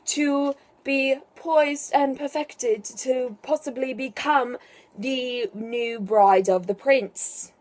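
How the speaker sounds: mock posh accent, half-hearted; bad put-on accent. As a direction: read it in a deliberately bad accent. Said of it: "That's a really bad accent".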